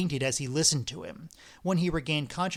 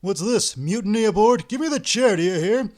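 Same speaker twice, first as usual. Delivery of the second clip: loud, higher, angry command; furious demand; 5 semitones higher, 8 dB louder than usual. Acted. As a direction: bellow at the mutineer. Ostap furious at refusal.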